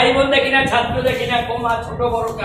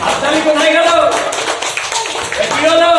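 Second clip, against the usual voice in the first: loud showman call; 4 semitones higher, 3 dB louder than usual. Real, not acted. Calling kids for applause.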